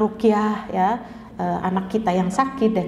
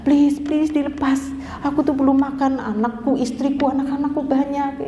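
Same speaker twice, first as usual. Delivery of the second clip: higher, slowed pleading whine; whining plea; 5 semitones higher than usual. Retold or imitated. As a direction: beg like a hungry thief caught again. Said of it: "dia merengek-rengek lagi".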